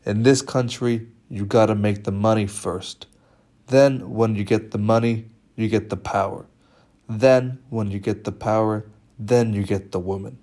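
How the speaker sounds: hint of a Cuban accent, emphatic; Tony's Cuban accent. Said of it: "in his Cuban accent".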